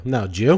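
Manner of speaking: "No, Jew" as a clipped "no, did you?"; Jersey slurred pronunciation. Shown as a demonstration. Jersey native answering the jeet question, slurred reply. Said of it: "you answer that by saying".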